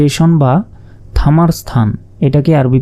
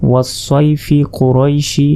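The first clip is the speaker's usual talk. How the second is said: ওয়াস সয় ফি কোরইশি linked slowly with no stop; measured ওয়াস সয় ফি কোরইশি in one breath; read on unstretched. Shown as a demonstration. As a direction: join ফি straight into কোরইশি without lengthening. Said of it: "এভাবে পড়লে কোনো টানতে হবে না".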